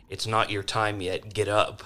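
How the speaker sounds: loud, urgent rallying call to a fallen friend; in-character call. Acted. Healer shouting at fallen Griff to get up. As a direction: shout them back to their feet. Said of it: "I'm going to physically say".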